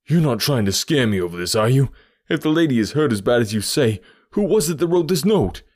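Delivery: suspicious challenge. A narrator's reading. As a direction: challenge them loudly, smelling a trick. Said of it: "he cried with a gleam of suspicion".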